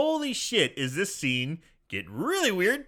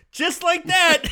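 high, loud, laughing exclamation; excited laughing; 11 semitones higher, 6 dB louder, slower than usual. Real, not acted. GM delighted by the twist, excited and laughing. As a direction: blurt it out in delight.

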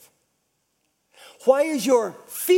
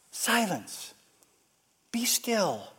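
calm rebuke; 6 dB quieter, slower than usual. Acted. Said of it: "he rebuked the wind".

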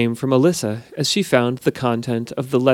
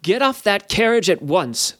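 stern guard shout; 5 semitones higher than usual. A narrator's reading. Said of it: "shouted Negwyn".

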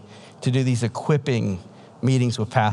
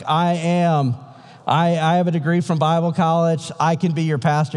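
eager plea; 5 semitones higher than usual. Retold or imitated. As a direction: push it out hopefully, raised voice. Eager smuggler asking to be pastor.

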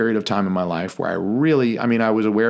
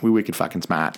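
wicked smart Boston accent; 3 semitones lower than usual. Shown as a demonstration. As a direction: drop the r's, Boston accent. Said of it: "I'm also working on my, uh, Boston accent".

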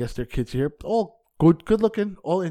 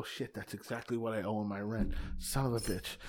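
low private grumble under his breath; muttered aside; 4 semitones lower, 13 dB quieter than usual. Retold or imitated. Comic to himself, muttering curses about the rent. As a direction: curse quietly to yourself.

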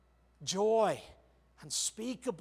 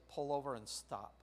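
soft, quiet voice of the Spirit; a hushed divine whisper-like prompt; still small voice; 3 semitones lower, 6 dB quieter than usual. Retold or imitated. Preacher voicing the Holy Spirit's quiet command. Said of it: "that still small voice".

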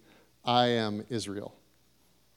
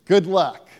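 louder, pushy street-preacher bark, ending in a sneer; mock hellfire preacher; 5 semitones higher, 5 dB louder than usual. Mocking a preacher who shouts threats at the lost. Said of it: "we don't do it with violence by declaring".

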